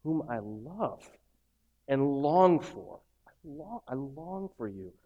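slow, soft, heartfelt reading of the letter; tender scripture reading. Acted. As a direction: read it like a love letter from prison. Reads Paul's letter tenderly.

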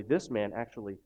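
usual speaking voice

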